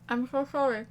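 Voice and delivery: gasping at the sourness; breathless from sour candy. Real, not acted. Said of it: "extremely sour".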